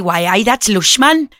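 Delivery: a quick imitation of Geordie speech; a hint of a Geordie accent, lilting "Why, aye". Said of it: "the Geordies do it as well".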